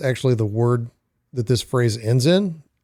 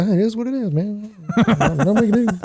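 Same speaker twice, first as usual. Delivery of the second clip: mock resigned; 7 semitones higher than usual.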